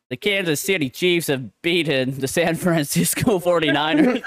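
put-on American sportscaster accent. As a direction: say it like an American announcer. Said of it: "That was my best, uh, American accent".

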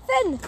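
"Thin" with a lisped th for the F; slushy lisp. Shown as a demonstration. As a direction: lisp "Thin" through the teeth. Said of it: "Die gelispelte Version von Finn".

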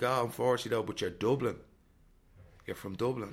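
high, loud mock put-down; imitating a snobby stranger, pitched well above his own voice; mocking the sneering lad. Retold lad sneering about Dublin.

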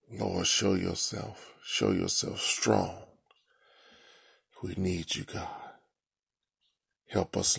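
earnest pleading prayer voice. Real, not acted. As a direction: pray humbly, pleading to God. Leads a long spoken prayer.

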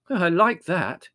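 Mother protesting to Larry; indignant exclaim. A narrator's reading. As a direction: protest the accusation. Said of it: "exclaimed Mother".

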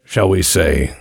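slow, measured, smug schemer with deliberate pauses; genteel villain. Acted. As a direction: purr it out like a patient mastermind over tea. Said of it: "and he goes".

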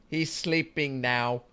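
slow, drawn-out quoted line; deadpan the movie quote slowly. Retold or imitated. Friend quoting a film, slow and deadpan. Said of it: "the line from the movie".

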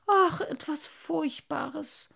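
groaning. Acted. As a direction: groan it out, shaken. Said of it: "stöhnte der kleine Wassermann außer sich".

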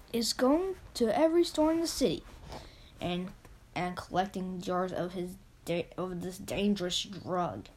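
news reporter in an attempted English accent. Sarah the reporter announces a drug recall, English accent. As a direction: read breaking news with a light English accent. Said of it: "do it in an English accent".

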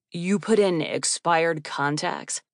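slow, incredulous and affronted; personally offended. Acted. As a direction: let the disbelief sit on every word. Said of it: "He sounded personally offended".

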